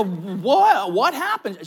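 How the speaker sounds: sudden loud alarmed question; startled. Retold or imitated. Boyfriend suddenly grasping bad news, loud startled question. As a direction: jolt out of the daydream.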